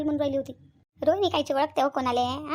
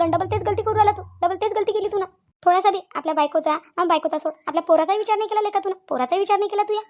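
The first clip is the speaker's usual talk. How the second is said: scolding; 3 semitones higher than usual. Acted. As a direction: take him to task for doing it twice. Aunt scolds Rahul for repeated wrongdoing. (चढ्या आवाजात खडसावत)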